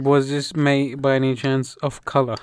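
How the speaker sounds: lightly voiced guessing-game genie; Akinator. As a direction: pose it like a game's guessing question. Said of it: "I'm doing the Akhenaten".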